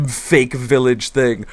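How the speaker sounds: normal talking voice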